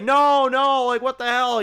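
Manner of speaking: high, loud, mock-panicked outburst; imitated freak-out. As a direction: act out someone freaking out, voice jumping up. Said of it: "he's, like, all freaking out".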